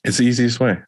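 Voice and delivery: blocked nose. Real, not acted. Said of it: "I can't breathe through my nose right now".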